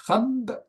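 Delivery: "Khab" set apart as one closed syllable; isolated syllable. Shown as a demonstration. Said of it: "ça fait une syllabe". (« Khab » en une seule syllabe détachée)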